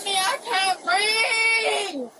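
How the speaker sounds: crying shout. Real, not acted. Arrested woman crying.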